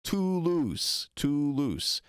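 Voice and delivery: Toulouse with a plain "oo" in both syllables; drawn-out, careful Toulouse; French pronunciation. Shown as a demonstration. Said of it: "The way he pronounced Toulouse. In French".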